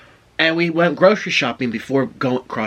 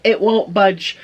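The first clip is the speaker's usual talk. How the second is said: mock exasperation; 7 semitones higher, 4 dB louder, slower than usual. Retelling struggle with the stick.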